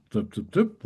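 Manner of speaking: sing-song doop, doop, doop; lilting doop sounds. Retold or imitated. Imitating the Liverpool lilt with sing-song doops. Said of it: "like that".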